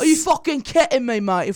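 mock cockney British accent; hammed-up bad British bloke, indignant. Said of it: "bad British accent moment".

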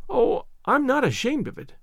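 a hint of a heartbroken child winding up to cry; distraught orphan girl. Anne explaining.

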